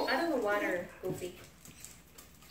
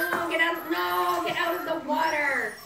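shouting; 4 semitones higher, 4 dB louder than usual. Real, not acted. Puppy in water dish.

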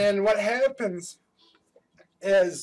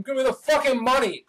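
higher, quick pretend holdup yell; yelling robber; 6 semitones higher, 3 dB louder, faster than usual. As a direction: demand it fast like a play-acting robber. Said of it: "you wanna yell at him".

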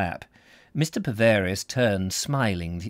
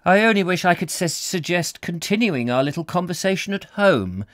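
higher, louder voice for a gentleman in a novel; suave suggestion; 9 semitones higher, 4 dB louder than usual. Acted. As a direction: voice his hopeful, halting invitation. Voicing Mr Paverius in story.

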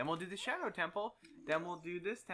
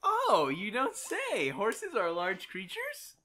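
sarcastic; 2 semitones higher, 5 dB louder than usual. Real, not acted. Mocking an obvious fact.

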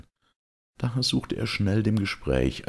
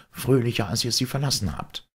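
a lightly raised, cheerful farmer offering wine; hearty peasant host; 9 semitones higher than usual. Acted. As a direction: urge the lords to drink. Hans comforts.

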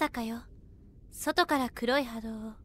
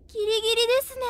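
tense exclamation; 8 semitones higher, 5 dB louder, much faster than usual. Acted. Tense estimate of the time.

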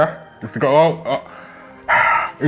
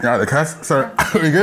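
mouth propped open. Real, not acted. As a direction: mouth full of food. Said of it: "You need to get that out of your mouth".

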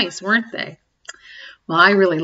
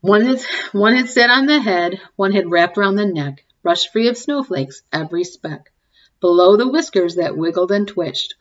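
story reading. A narrator's reading. Reading a cumulative rhyme to the kids, sing-song. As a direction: read it like a bedtime picture book. Reads picture book aloud.

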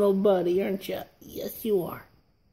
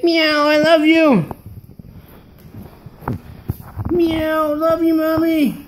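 talking doll; 3 semitones higher than usual. Pretend.

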